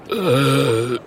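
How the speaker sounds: drawn-out dopey "äh"; hesitant stammer. Acted. Potato troll facing the caged dragon, hesitant stammer. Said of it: "stottert der Kartoffeltroll".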